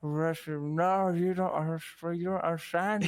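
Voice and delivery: high, garbled mock-teen whine; hammed-up misunderstood teen outburst; troubled teenager. Teenager arguing back at mother, hammed-up whining protest. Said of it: "teenager who's going through a bad time".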